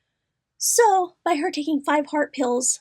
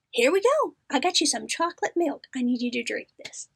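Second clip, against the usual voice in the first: put-on coaxing like a child. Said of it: "do her like the kids".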